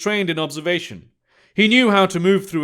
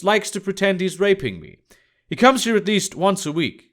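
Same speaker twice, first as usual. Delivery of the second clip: lightly voiced blunt woman, slightly raised pitch; blunt Emma; 2 semitones higher than usual. Emma tells Thaddeus about her rough customer, blunt character voice. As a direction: give a frank account in a lightly put-on character voice.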